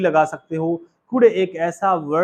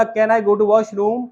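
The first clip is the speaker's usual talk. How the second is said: put-on small child asking; 4 semitones higher, 3 dB louder, much slower than usual. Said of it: "बच्चे ने बोला".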